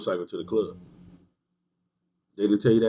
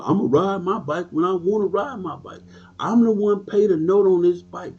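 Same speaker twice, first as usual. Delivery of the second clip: mock entitled member; 7 semitones higher than usual. Quoting a member's entitled attitude.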